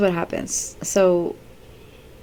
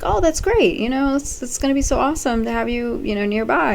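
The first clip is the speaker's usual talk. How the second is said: high, fast, gushing mock enthusiasm; overeager Nate; 8 semitones higher than usual. Nate gushes to Lisa about her living nearby. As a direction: pile on the fake cheer, pitched high. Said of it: "And he's like".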